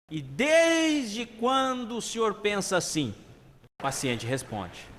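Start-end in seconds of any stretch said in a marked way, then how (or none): 0.1-3.1 slow, high, drawn-out doctor's question; long-drawn, raised-pitch probing; deep-breath question. Acted. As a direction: stretch the opening out with studied patience. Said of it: "respirando fundo, pergunta".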